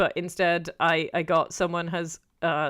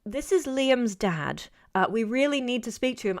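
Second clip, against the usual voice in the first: imitated insistent dad; 5 semitones higher than usual. Liam's dad phoning the student, imitated insistence. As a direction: lightly act a father pressing his request. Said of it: "it's a man this time".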